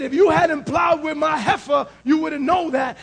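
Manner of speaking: mild mock anger, punching the opening words; retold anger. Preacher repeating Samson's retort to show he was angry, mildly angry. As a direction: quote an angry man, with a little force. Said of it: "The man was angry".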